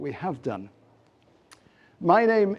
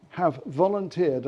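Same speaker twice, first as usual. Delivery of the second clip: volunteered given a slight lean; stress on volunteered; 2 semitones higher than usual. Real, not acted. Host thanking the speakers, light stress. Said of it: "I emphasize the word volunteered".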